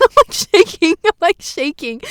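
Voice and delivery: high, loud trembling report; high-pitched mock jitters; mock shaking. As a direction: act rattled, hammed up. Acting out shaking after being yelled at.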